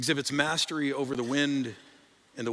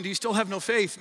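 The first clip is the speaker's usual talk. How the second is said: needling; 4 semitones higher than usual. Shown as a demonstration. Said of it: "we hear Jesus just kinda needling them".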